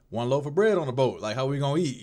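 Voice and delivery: retold disciples in a mild panic; mock worried disciples. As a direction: play the anxious disciples, half joking. Disciples fretting in the boat.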